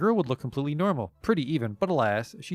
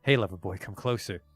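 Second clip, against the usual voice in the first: terrible belly voice. Acted. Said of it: "a terrible voice screeches out from her lower abdomen".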